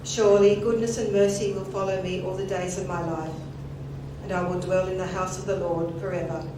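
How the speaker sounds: solemn, measured scripture reading; psalm reading. Acted. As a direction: read it reverently, like at a funeral. Reads the twenty-third Psalm.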